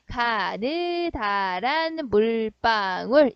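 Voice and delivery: drawn-out, very slow syllables; recited memory phrase. Shown as a demonstration. Teacher prompting students on the seven consonants, slowly recited. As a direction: recite it slowly, holding each syllable for the class. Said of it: "일곱 개 자음인데 뭐라고?".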